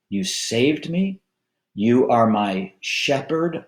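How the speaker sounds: 3 model a heartfelt prayer for the congregation, drawing out key words; 1 spoken prayer. Shown as a demonstration. 4 pastor showing the church how to begin a prayer, earnest and unhurried. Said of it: "to begin by saying".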